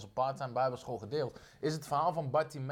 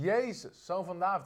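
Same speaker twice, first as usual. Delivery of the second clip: calling out louder; 4 semitones higher than usual. Retold or imitated. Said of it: "nog harder te roepen".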